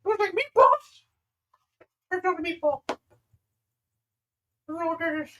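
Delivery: high, eager call across the hall; eager Kato. Acted. Kato calling the group to the table, eager high call. GM voices Kato over appetizers.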